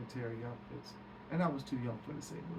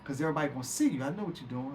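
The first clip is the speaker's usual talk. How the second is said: Eddie scolding; 6 dB louder, faster than usual. Retold or imitated. Eddie quarrels over the tie.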